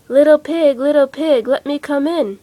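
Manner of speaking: loud, menacing wolf call; big bad wolf. The wolf demands entry, loud menacing call. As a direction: call through the door like a wolf.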